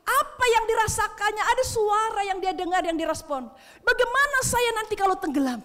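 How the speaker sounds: high, loud, driving sermon delivery; fiery preaching. Acted. Preacher at full force telling Peter's story to church, loud and high.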